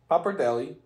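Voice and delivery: put-on hammy Italian accent. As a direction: roll it like an Italian. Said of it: "Why did you just pick up an Italian accent halfway through".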